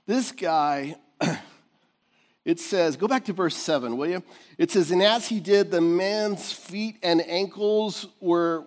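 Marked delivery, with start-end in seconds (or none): 4.9-8.6 slow, drawn-out reading before the punch; slow, teasing scripture read; slow buildup. Shown as a demonstration. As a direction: draw it out so the church fills in. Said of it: "what, church?".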